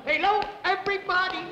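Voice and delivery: manic greeting. Acted. Jerry performs over-eager greeting.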